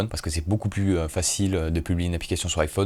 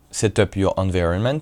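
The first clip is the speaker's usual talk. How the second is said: French-accented English; self-mocked English accent. Real, not acted. Host reading setup instructions in French-accented English. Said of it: "avec mon super accent anglais".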